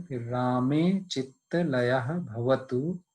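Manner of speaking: slow, measured shloka chant; Sanskrit recitation. Shown as a demonstration. Teacher recites the Sanskrit verse for students, slow chant. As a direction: recite the verse slowly and evenly.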